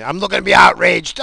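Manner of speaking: loud, high shout of mock fury; mock outrage shout. Real, not acted. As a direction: yell it like you're itching for a fight. Joking he wants outrage.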